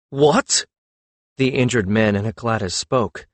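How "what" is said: bellowed. A narrator's reading.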